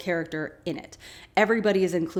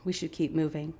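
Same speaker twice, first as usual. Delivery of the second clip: soft, lowered gentle voice; 3 semitones lower, 7 dB quieter than usual. Retold or imitated. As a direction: quote him gently, much softer. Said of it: "Saeed gently says".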